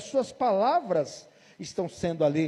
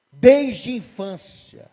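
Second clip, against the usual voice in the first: weary father answering; 6 dB louder, much slower than usual. Retold or imitated. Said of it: "O que que ele falou?".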